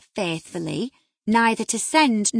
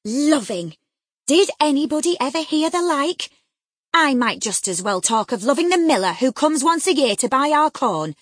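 loud, mocking scorn; scornful mockery; 3 semitones higher, 7 dB louder than usual. A narrator's reading. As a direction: ridicule her childish love. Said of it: "as scornfully as I could".

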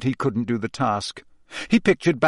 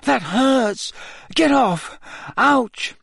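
high pained protest; 11 semitones higher, much slower than usual. Acted. Dreaming, being poked.

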